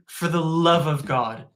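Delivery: slow, urgent self-warning; inner voice. Retold or imitated. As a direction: plead with yourself to stay awake. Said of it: "and thinking".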